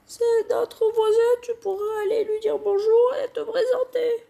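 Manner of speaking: nasty high-pitched mother voice; unpleasant mom voice. Acted. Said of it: "je vais faire une voix désagréable pour la daronne".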